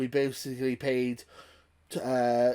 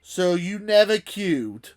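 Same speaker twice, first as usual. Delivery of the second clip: mocking quote; 6 semitones higher, 7 dB louder, slower than usual. Quoting organiser's message.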